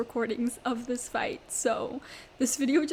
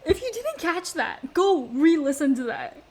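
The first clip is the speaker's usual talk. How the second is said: loud, raised outburst of disbelief; exasperated screaming; 3 semitones higher, 5 dB louder than usual. Real, not acted. Telling viewers to re-listen to that, loudly exasperated. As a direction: cry out, then hammer it home loudly. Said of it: "I'm screaming".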